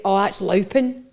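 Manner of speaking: "louping" drawn out slowly, Scots vowel; Scots phrase demonstrated. Shown as a demonstration. Host teaching the visitor a Scottish phrase, "louping" said slowly. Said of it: "So I would say".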